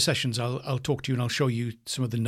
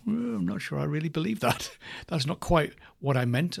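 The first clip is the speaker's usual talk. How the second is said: doubtful self-talk; 5 semitones higher than usual. Acted. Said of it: "Sometimes when you say things, you go".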